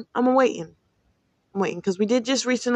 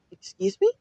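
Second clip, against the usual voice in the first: high, sharply indignant excuse me; 12 semitones higher than usual. Retold or imitated. Retelling her comeback to a coworker, high indignant excuse me. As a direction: pitch it way up in mock offense.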